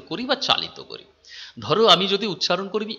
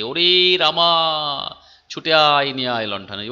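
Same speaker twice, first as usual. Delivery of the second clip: louder call to a friend far away; 4 dB louder than usual. Pretend. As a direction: shout it across a distance, stretching ওরে রামা. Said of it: "অনেক দূরে তোমার বন্ধু দাঁড়িয়ে আছে, তুমি তাকে ডাকলে".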